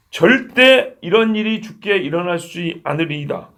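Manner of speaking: slow, emphatic acted protest; mock rebuking retort. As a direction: push back as if scolding, drawing it out. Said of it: "막 쏘아붙였죠". (책망하듯 쏘아붙이는 연기)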